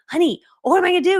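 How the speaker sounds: high, loud hammed-up plea to husband; dramatic panic. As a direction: wail it in mock distress. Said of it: "this very dramatic moment".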